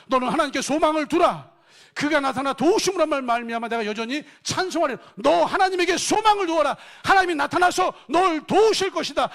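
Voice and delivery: loud, high commanding proclamation; proclaiming to oneself. Acted. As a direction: order your own soul to hope. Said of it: "아담 이렇게 얘기하는 거예요".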